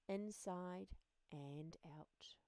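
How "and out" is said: whisper. A narrator's reading. God made him special.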